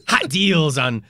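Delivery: giggling through words; laughing while talking. Real, not acted. Laughing through silly bit.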